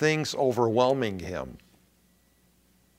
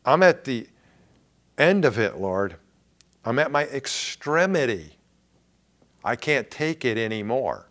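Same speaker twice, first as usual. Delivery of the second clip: exhausted plea. Retold or imitated. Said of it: "what he meant".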